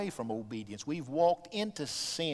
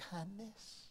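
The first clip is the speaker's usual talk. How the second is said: breathy whisper of the single word; 6 semitones higher, 17 dB quieter than usual. Acted. Preacher urging the congregation toward God's kindness, soft whisper. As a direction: drop to a hush on kindness.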